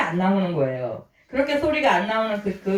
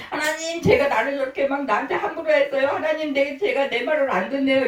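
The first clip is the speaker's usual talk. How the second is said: pleading prayer; 5 semitones higher than usual. Retold or imitated. Voicing a tearful believer's prayer.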